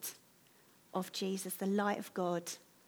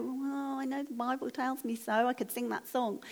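slightly higher, unconvinced self-quote; retold half-hearted reply; 3 semitones higher than usual. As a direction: voice your own lukewarm reply, lightly acted. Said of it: "And I'd go".

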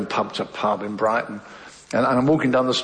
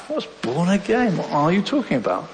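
higher-pitched, puzzled retort; baffled objection; 5 semitones higher than usual. Retold or imitated. Brother arguing with his newly converted sister, baffled. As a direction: push back, mildly incredulous.

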